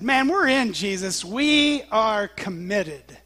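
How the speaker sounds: imitating gung-ho followers, loud at first; eager pledge. Disciples chiming in after Peter, emphatically committed. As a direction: stretch out WE ARE COMMITTED with conviction.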